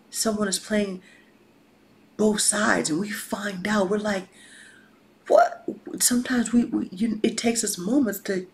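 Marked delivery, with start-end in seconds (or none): 5.3-5.6 high-pitched startled "What?"; sudden loud, high squawk of disbelief; taken aback. Acted. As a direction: blurt it out in acted shock. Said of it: "'cause we're taken aback".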